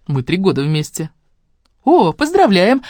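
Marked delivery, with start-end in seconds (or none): 1.8-2.8 high, loud solemn cheer; solemnly festive. Acted. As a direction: announce it grandly. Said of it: "торжественно произнесла Катя".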